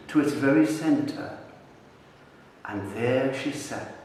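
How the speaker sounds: slow, spaced-out story narration with long pauses; bedtime storytelling. Retold or imitated. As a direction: spin a tale slowly for a small child, phrase by phrase. Retells his improvised bedtime story.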